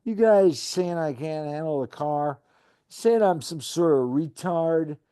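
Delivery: mildly hostile, defensive retort; a hint of an offended driver snapping back; understated hostile comeback. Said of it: "replies with hostility in his voice".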